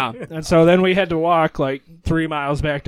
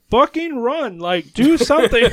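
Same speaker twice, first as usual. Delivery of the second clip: raised, higher urgent shout to flee; urgent yell; 6 semitones higher, 3 dB louder, slower than usual. Retold or imitated. Friend yelling at panicked buddy to run from cops, raised urgent shout. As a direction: yell at them to get moving.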